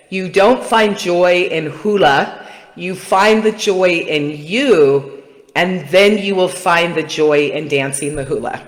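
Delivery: lightly voiced wise teacher, slow; a hint of Kumu's slow, gentle way of talking; slow, wonderful Kumu. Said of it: "He talks real slow and wonderful".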